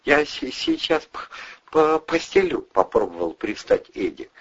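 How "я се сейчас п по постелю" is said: high, halting, stumbling words; stammering weak offer. A narrator's reading. Weak Eddie offering to make a bed, stammering.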